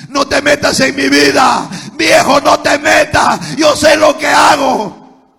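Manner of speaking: loud, slow, defiant shouting; defiant shout at parents. Retold or imitated. Son defying his mother and father, angry shout. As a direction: yell it back at your old folks, stubborn.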